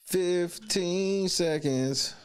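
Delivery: slow, stretched countdown; drawn out slowly. Shown as a demonstration. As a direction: stretch each word out. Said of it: "countdown repeated drawn out".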